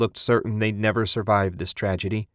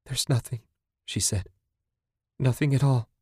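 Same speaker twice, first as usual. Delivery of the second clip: miserable whine; 4 semitones higher than usual. A narrator's reading. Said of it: "whined miserably".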